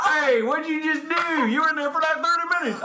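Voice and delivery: high, loud teasing voice; high mock accuser. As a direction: call out a roommate, high and loud. Acting out a bathroom accusation.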